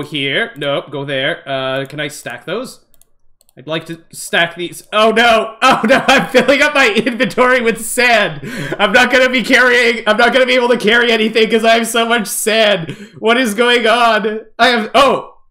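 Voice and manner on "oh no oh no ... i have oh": raised, insistent dismayed protest; rising gamer's panic; playful alarm. Real, not acted. Inventory filling up, panicking.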